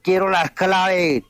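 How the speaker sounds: lightly voiced demon stretching every word; a hint of a possessed child, slow and eerie; imitating a demonic child. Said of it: "de la forma más demoníaca".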